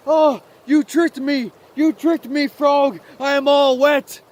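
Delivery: high, loud, indignant outburst; angry little mouse. Acted. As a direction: accuse the frog as a furious little mouse. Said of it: "why are you angry with me?".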